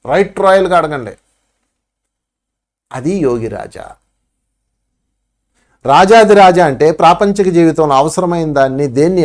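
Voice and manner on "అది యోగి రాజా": low, slow naming of the title; slow solemn title. Shown as a demonstration. Guru naming the second teaching, low and slow. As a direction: say it slowly like a solemn heading.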